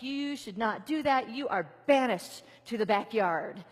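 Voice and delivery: a mild stern telling-off to a dog; mock scolding owner. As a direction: scold the puppy, half-serious. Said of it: "I'd be like".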